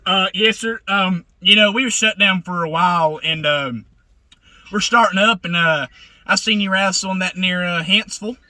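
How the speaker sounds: fake promoter. A prankster poses as promoter Mike Mason on a phone call to a wrestler, lightly voiced. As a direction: play the confident booker pitching a job. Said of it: "can I be, uh, Mike Mason".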